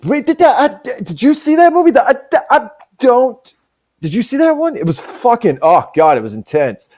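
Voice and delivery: high-pitched, stammering excitement; excited moviegoer. Acted. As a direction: gush about a film, tripping over words. Acts excited moviegoer discussing the film.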